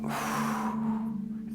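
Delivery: long unvoiced out-breath; long exhale. Shown as a demonstration. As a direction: breathe all the air out slowly. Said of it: "you breathe out".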